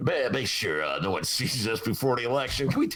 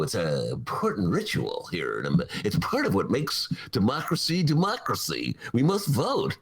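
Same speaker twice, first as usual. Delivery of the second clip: insincere politician; 5 semitones lower than usual. Retold or imitated. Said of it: "it's dripping with insincerity".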